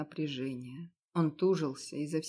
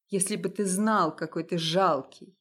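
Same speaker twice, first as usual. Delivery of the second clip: a touch louder, flung out at once; sudden blurt; 4 dB louder than usual. Acted. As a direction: snap it out before thinking. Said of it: "внезапно выпалила я". (внезапно выпалить)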